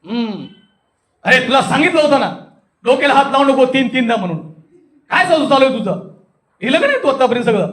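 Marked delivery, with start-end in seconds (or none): 1.2-7.7 demonstrating wrathful rasa, a raised scolding; angry demo scolding. Shown as a demonstration. Teacher demonstrating anger by scolding someone, cross and raised. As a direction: scold like an irritated elder. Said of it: "रौद्र रस आहे".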